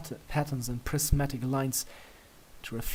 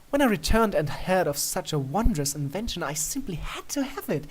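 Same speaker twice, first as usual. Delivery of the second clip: playful princess; 6 semitones higher than usual. A narrator's reading. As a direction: draw it out, daring him. Luna explaining.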